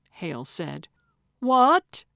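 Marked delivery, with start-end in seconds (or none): 1.4-2.0 loud, high, rising exclamation of disbelief; aghast outburst; shocked cry. Acted. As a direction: cry out stunned, pitch shooting up. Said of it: "Gertrude and Calvin cried".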